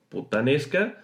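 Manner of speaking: "puttanesca" with the A before the T held long; stretched vowel before the T. Shown as a demonstration. Teacher demonstrating the drill to learners, long held vowel. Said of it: "alargar la vocal".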